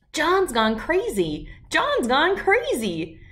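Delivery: high, drawn-out schoolboy jeer; storybook bully's slow, high-pitched holler; taunting yell. A narrator's reading. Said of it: "Spider yelled".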